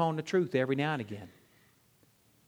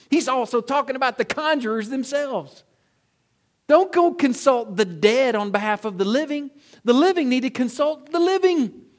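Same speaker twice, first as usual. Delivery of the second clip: full-force preaching; 6 semitones higher, 8 dB louder than usual. Acted. Climactic preaching, louder and higher.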